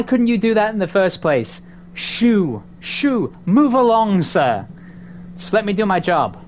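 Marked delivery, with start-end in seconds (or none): 1.9-4.7 shooing away. Pretend.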